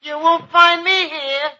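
slow, distant voice from a drawer; spooky hidden voice. Acted. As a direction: call out slowly, like a ghost in furniture. Voice from inside the bureau.

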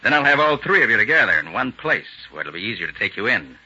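loud, taunting courtesy; mock politeness. Captured detective baiting the crooks who hold him, loud mock politeness. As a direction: lay on the gracious thanks, loudly.

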